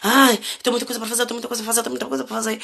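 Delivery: rushed, harried repeating of her own complaint; frantic self-quote. Retold or imitated. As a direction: mimic yourself overwhelmed, rattling it off. (imitando a si mesma, apressada e aflita)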